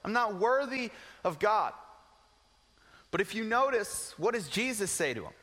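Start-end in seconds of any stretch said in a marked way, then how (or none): 0.0-1.7 higher, anguished self-doubt; a hint of pained despair; despairing Paul. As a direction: pour out the guilt. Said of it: "I can imagine those lies".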